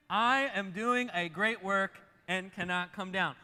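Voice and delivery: slow, loud, measured declaration; leading a recitation. Shown as a demonstration. Preacher inviting congregation to say it along, slow loud declaration. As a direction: lead the room through it word by word. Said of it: "Can you say that with me?".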